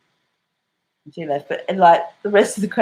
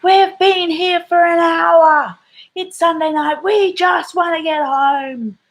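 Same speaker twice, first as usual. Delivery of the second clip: high, loud, slow whiny woman's yell; hammed-up complaining customer; mock yelling woman; 13 semitones higher, 5 dB louder, slower than usual. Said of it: "she starts yelling".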